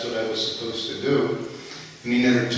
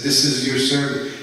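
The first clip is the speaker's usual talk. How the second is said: retold angry yell; 5 dB louder than usual. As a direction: bark it out like a guru who was kept waiting. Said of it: "he's screaming at me".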